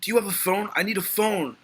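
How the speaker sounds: high, pleading and frantic; panicked Dan Fielding. Retold or imitated. Stranded in Alaska, pleading with the Eskimo, high and frantic. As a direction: beg for a phone, stranded and desperate. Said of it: "He's like".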